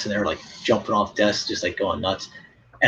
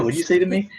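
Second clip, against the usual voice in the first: mock stern challenge; 6 semitones higher than usual. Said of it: "I go".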